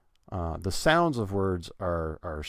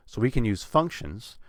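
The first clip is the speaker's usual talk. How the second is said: "functions" punched on the first syllable; stress on functions; 3 semitones higher than usual. Shown as a demonstration. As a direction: lean on "functions". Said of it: "I'm putting stress on that".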